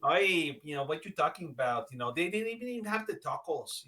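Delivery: lightly voiced Mexican accent; a hint of a Mexican accent, complaining; mock Mexican accent. Teased as Señor Danny, light Mexican accent. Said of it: "Hola, Señor Danny".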